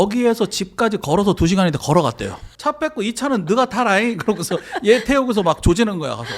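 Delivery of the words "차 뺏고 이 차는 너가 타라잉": mocking command through laughter; laughing taunt. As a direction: laugh while bossing him off. Mocking quote while laughing. (웃으면서 놀리듯 명령)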